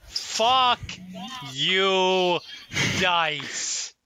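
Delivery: shouting at the dice in frustration; angry yell. Real, not acted. Frustrated player yelling at dice.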